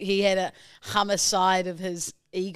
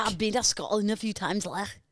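imitated Scottish accent; 3 dB quieter than usual. Co-host mimics host's line, Scottish accent. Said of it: "They do Scot-, Scottish accent".

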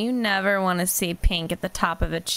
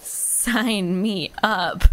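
eager, drawn out; 6 dB louder, much slower than usual. Real, not acted. Eager reaction to cheap tickets.

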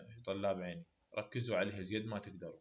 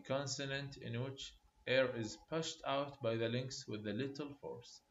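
very slow, word by word for note-taking; slow dictation; much slower than usual. Shown as a demonstration. Teacher to students copying notes, slow dictation. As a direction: dictate it slowly so students can write. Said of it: "definition dictated".

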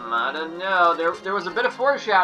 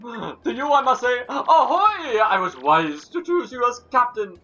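put-on gruff old sailor voice; 5 semitones higher than usual.

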